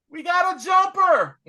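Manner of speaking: high, loud yelling villain voice; mock Trask yell. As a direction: shout it out like a panicked cyborg villain.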